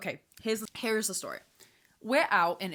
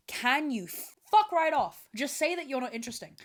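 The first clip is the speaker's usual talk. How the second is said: exasperated; 6 semitones higher, 3 dB louder than usual. Real, not acted. Exasperated outburst.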